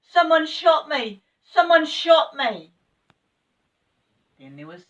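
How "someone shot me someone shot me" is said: high, loud panicked shriek; alarmed, wailing protest; frightened cry. Acted. Frightened cry after being shot.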